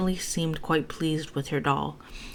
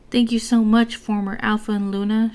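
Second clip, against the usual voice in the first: higher, louder, a bright polite thank-you; 6 semitones higher, 7 dB louder than usual. A narrator's reading. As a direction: thank them sweetly, like a well-raised girl. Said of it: "she said politely".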